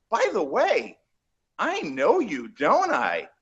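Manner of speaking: lightly voiced actress with swooping pitch; playful retold sing-song question; imitating a curious actress. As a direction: mimic her lilting moment of recognition. Retelling actress recognising him.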